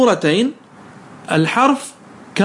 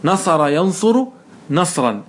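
slow demo; slower than usual. Shown as a demonstration. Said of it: "نعم".

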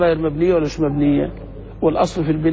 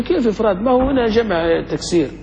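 higher, questioning voice of a puzzled student; mock objecting student; 5 semitones higher than usual. Teacher imitating a student's objection, lightly higher. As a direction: play the student who doubts. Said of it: "يقول لي".

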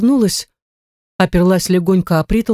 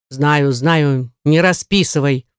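low, lightly dismissive butler; weary of hearing it, pitched low; 5 semitones lower, slower than usual. Acted. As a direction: brush the complainer off in a low voice. Butler cuts off servant's complaints.

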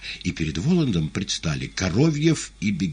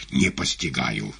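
plain reading voice

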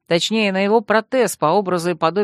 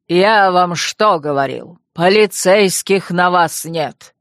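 lively scolding; 3 dB louder, slower than usual. Acted. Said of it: "оживился Дюршак".

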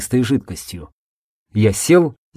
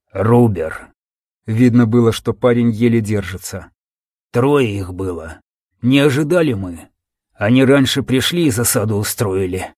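wounded soldier. Acted. Wounded soldier barely holding on.

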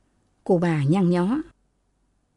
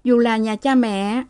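higher-pitched voice of a woman confiding her troubles; aggrieved married sister; 6 semitones higher than usual. Acted. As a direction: pour out a grievance to your sister, pitched up.

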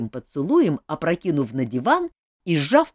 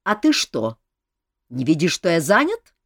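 rude; 6 dB louder than usual. Acted. King keeps rebuking Anna.

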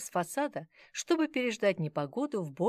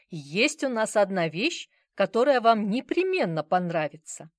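eager salesman; 3 semitones higher, 8 dB louder than usual. Acted. Salesman courting rich customers.

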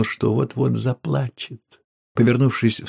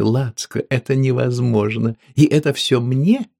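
thrilled; 4 semitones higher, 4 dB louder than usual. Acted. Woman thrilled.

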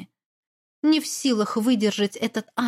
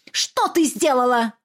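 demanding question; 4 dB louder than usual. Acted. Mother interrogating her daughter, pressing. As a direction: push her for an answer.

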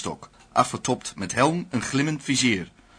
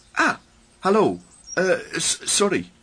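startled; 7 semitones higher than usual. Acted. Johnny startled at the window.

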